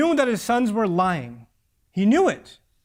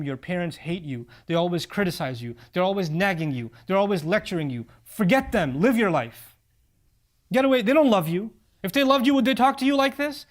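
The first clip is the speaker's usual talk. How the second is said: coax, then build to a push; a devil that goes from sly to insistent; whispering devil. Retold or imitated. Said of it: "shaitan will come ... say to them".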